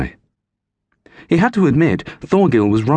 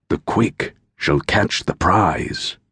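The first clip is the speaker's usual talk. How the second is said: solemn proverb; slower than usual. Acted. Stranger quoting Odin's saying.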